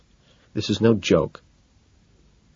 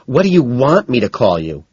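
higher, louder indignant question; 6 semitones higher, 4 dB louder than usual. A narrator's reading. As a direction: take offence as you ask. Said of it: "she asks indignantly".

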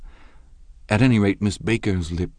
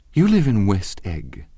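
slow, disdainful remark; cold contempt; 4 semitones higher, 5 dB louder than usual. Acted. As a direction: look down on the place. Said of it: "she remarked contemptuously".

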